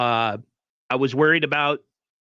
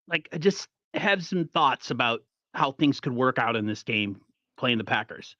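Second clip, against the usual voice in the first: ordinary talk, nothing marked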